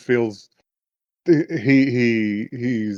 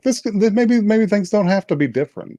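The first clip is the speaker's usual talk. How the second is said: much higher, tentative acted thought; retold hopeful musing; 9 semitones higher than usual. Friend retelling a character's hopeful thought, in high musing. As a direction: muse hopefully in a raised voice.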